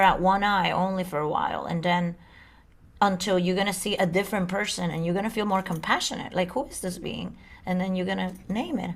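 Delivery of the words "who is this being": breathy unvoiced whisper. Shown as a demonstration. Whispering to your own reflection in the mirror. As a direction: hush it, as if in awe of the face in the mirror. Self-talk demo at the mirror.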